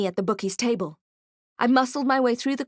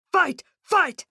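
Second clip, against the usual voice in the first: high, loud chanted shouts; crowd shouting; 9 semitones higher, 3 dB louder than usual. Acted. Orc crowd egging on the cage fight, high loud shouting. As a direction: yell it like a bloodthirsty crowd. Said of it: "the others were shouting".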